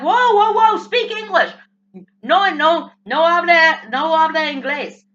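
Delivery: acted protest. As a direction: cut them off loudly, exasperated. Acted reaction to foreign speaker.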